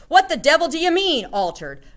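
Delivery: loud, high demand; outraged shouted question. A narrator's reading. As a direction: shout the question, pitched well up. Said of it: "shouted Mister Jenkins".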